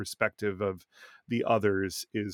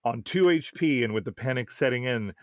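reading aloud. Acted. Reads a listener's game story.

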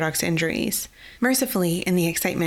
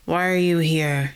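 grumbling. Acted. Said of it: "he grumbled".

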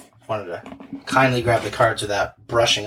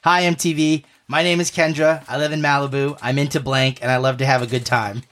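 put-on Valley Girl voice; 3 semitones higher than usual. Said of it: "my best Valley Girl impression".

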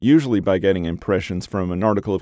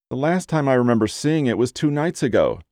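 higher, complaining client voice; whining voice; 5 semitones higher than usual. Acted. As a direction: whine it like a fretful middle-aged woman. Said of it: "the whining voice said".

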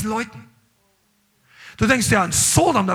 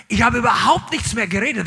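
normal talking voice

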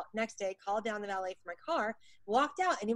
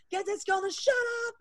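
high, mildly louder retold scream; mock scream; 11 semitones higher, 4 dB louder than usual. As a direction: holler it at the whole room, half in jest. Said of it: "he just screamed it to the whole room".

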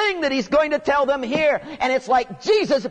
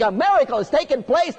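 ordinary talk

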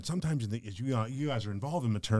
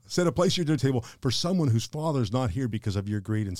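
raised, emphatic voice of a father laying down the law; stern father's rebuke; 2 semitones higher, 6 dB louder than usual. Retold or imitated. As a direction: imitate a father forcefully admonishing his son. Father sternly rebuking his son.

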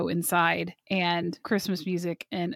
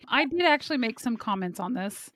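voice cracking. Real, not acted. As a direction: voice cracks mid-sentence. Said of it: "My voice just cracked for some reason".

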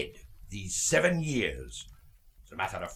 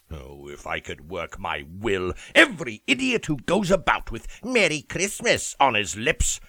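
a miser's growing tirade; bitter rant; 4 semitones higher, 6 dB louder than usual. Acted. Scrooge rants about Christmas fools.

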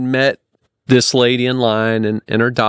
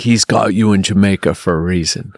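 lightly imitating a Jamaican man, lower; retold pronouncement in a lowered voice; deep Jamaican voice; 4 semitones lower than usual. Traveller imitates the Jamaican guy's reassurance, lightly deepened voice. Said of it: "like that".

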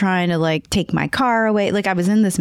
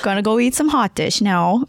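put-on North Dakota accent; 4 semitones higher than usual. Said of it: "Do the accent".

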